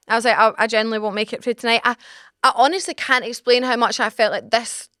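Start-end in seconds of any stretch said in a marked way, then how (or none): 0.4-1.8 insistent retort. Retold or imitated. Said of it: "Megan, you're being dramatic".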